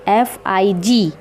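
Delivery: slow letter by letter; spelling out. Shown as a demonstration. Teacher spelling fig slowly for the class. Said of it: "अंजीर को English में कहते हैं फिग".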